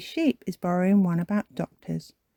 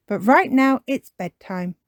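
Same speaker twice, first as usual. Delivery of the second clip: higher, louder cartoon mum; Mummy Pig; 6 semitones higher, 6 dB louder than usual. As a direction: lift the voice as a mum announcing. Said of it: "says Mummy Pig".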